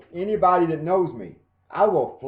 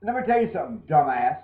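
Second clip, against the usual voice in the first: heated rant; 3 semitones higher than usual. Real, not acted. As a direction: tear into him, getting louder as you go. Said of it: "I will get louder and louder and louder".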